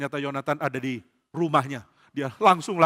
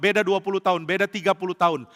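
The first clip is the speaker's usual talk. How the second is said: usual speaking voice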